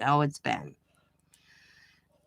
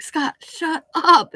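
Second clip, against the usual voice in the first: higher, louder, slow mock yell of "Scott, shut up"; retold yell; 10 semitones higher, 9 dB louder, much slower than usual. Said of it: "And I'm like".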